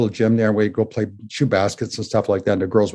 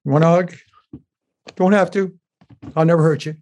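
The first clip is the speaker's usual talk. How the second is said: high, gentle offer with pauses; softhearted, raised-pitch reassurance; tender reassurance; 7 semitones higher than usual. Retold or imitated. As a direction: retell coaxing a hurt child, no pressure. Offering a hug to hurt child.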